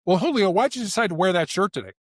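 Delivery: lightly pointed query; accusatory. Shown as a demonstration. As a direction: question them as if faintly accusing. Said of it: "why questions sound accusatory".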